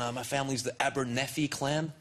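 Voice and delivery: lightly imitated proud American; a touch of American accent. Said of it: "I had a guy tell me".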